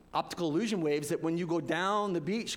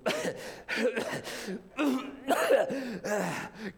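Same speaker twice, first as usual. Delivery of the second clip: mock cough laughing; 5 semitones higher than usual. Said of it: "I'm spitting and I'm coughing".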